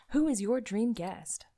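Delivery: slow, drawn-out announcer read. Pretend. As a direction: announce the question slowly. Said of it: "I'm also gonna be doing my announcer voice".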